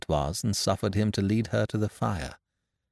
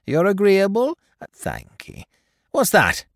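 a hint of a sneering toymaker, raised; lightly voiced Tackleton; 2 semitones higher than usual. Tackleton keeps talking.

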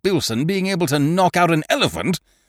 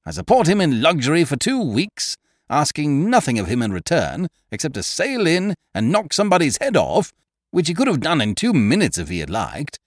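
higher, indignant tirade; vigorous indignation; 7 semitones higher than usual. Acted. Eucridge ranting about his boxer's softness. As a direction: rant with wounded vigour. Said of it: "throwing off his lethargy with a vigour that spoke of mental anguish".

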